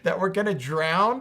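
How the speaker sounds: high, loud cry of disciples about to drown; frantic shout for the teacher; panicked shout. Acted. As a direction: yell it like the boat is sinking. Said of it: "woke him up shouting".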